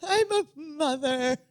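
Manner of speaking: playful imitation of a wail; mock-tearful mimicry. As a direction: draw it out, imitating a distraught mother. Co-host mimics her plea.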